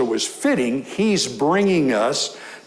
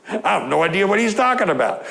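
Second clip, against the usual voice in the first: quick, a touch higher puzzled protest; mock bewildered; 5 semitones higher, faster than usual. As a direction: rattle it off like a baffled listener. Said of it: "What did he say?".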